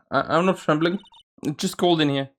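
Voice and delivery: a hint of a jittery beginner protesting; nervous rookie. Nervous rookie denies trembling.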